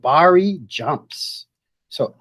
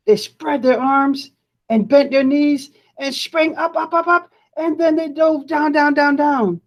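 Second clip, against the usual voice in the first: climbing pitch; 11 semitones higher than usual. A narrator's reading. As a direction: voice climbs higher with each up, then stays high for the dives. Narrating kids diving, up then down.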